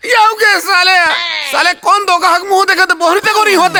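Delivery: hammed-up crying complaint; mock wail. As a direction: whine it like a comic sob. Vendor wails over no sales.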